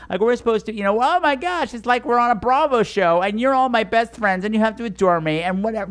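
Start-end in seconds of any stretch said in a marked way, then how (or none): 1.0-5.9 put-on high, gushing party girl squeal; gushing bachelorette. Comic mocking a bachelorette crashing a gay bar, gushing high. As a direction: mimic a bride-to-be gushing over her gay friends.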